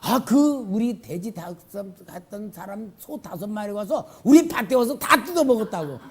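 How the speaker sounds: high, loud, laughing excitement; can barely contain the joy; gleeful retelling. Retold or imitated. Believer telling pastor the cows came, loud and laughing. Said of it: "신났다고".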